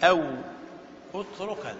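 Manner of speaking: reciting verse. Shown as a demonstration. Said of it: "ثم شرع في بيان المهموز فقال".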